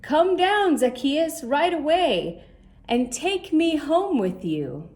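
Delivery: calling up. Acted. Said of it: "heard him call".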